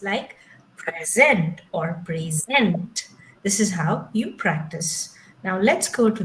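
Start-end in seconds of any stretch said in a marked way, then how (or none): 0.8-1.6 slow "present", PRE stressed; stress on first syllable. Shown as a demonstration. Teacher showing clap practice, "present" stressed early. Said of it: "clap where you have to stress". 2.0-3.1 slow "present", ZENT stressed; stress on second syllable. Shown as a demonstration. Teacher showing clap practice, "present" stressed late. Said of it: "clap where you have to stress".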